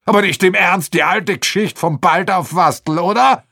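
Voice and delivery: high, loud disbelief; incredulous. Acted. Aschenwald scoffs at the old case, high and loud.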